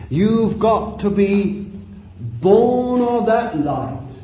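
drawn-out, deliberate sermon phrases; measured pulpit exhortation; solemn preaching. Real, not acted. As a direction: press it home slowly, phrase by phrase.

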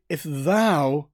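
"thou" stretched and leaned on; single out one person with a stressed "thou"; emphatic THOU. Acted. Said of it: "if you personally".

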